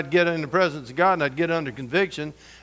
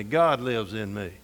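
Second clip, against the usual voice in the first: sincere declaration; 6 semitones lower, 5 dB quieter, slower than usual. Shown as a demonstration. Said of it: "say this with me".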